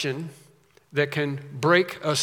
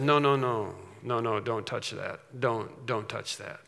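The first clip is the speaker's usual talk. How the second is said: hushed warning; 5 semitones lower, 7 dB quieter than usual. Acted. Holy Spirit guarding the seal.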